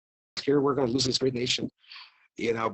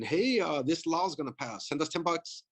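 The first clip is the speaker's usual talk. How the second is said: higher-pitched mock pleading for cash; mock fundraising plea; 5 semitones higher than usual. Republican Party texting supporters for money, mock plea. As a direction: imitate a needy party appeal, pitched up.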